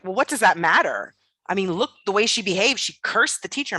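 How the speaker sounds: tattle like a scandalised nun; imitating the nun's outraged complaint; indignant nun. Child mimics indignant nun.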